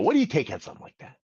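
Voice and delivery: fast, offhand "What do you take on something like that?"; casual quick ask. Shown as a demonstration. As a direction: toss off the question quickly, like it's routine. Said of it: "if you say it like that".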